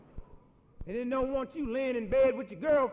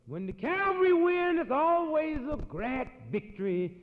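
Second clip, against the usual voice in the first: ironic; 7 semitones higher, 6 dB louder than usual. Acted. Ironic contrast.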